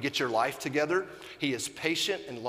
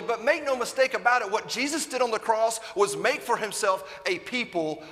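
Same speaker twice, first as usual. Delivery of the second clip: raised, higher preaching voice; 10 semitones higher, 5 dB louder than usual. Acted. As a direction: preach it out to the congregation. Preacher building to full force.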